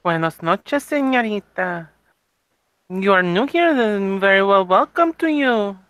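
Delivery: put-on heavy Spanish accent. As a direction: lean into a thick Spanish accent. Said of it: "the one with the very, uh, Spanish accent".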